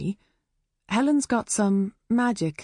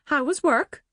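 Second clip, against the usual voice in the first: doting mum; 9 semitones higher than usual. A narrator's reading. Mum asking Helen.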